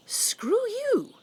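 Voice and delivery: breathy, defiant whisper; whispered jab at the critics; whispered screw you. Real, not acted. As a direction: spit it out under your breath. Aside to the critics.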